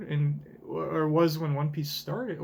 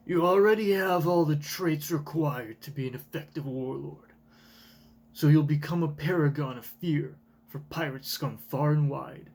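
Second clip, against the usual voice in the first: dragon voice. Acted. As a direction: growl it like a dragon. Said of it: "that's more of a dragon voice".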